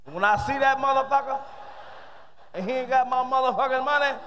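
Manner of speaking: lightly voiced guy complaining about Bobby, building up; brother talking. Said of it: "listen to two brothers talk".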